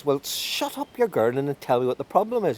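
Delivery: fairy king voice. Acted. Fairy king scolds the man.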